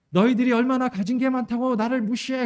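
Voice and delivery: high-pitched imitation of an offended drunk; drunken homeless man ranting. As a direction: rant at the whole carriage like a drunk. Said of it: "사람들한테 막 떠들어댑니다".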